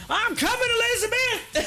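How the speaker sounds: high, strained mock heart-attack cry. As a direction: ham up a fake collapse, voice cracking high. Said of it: "their reactions are like".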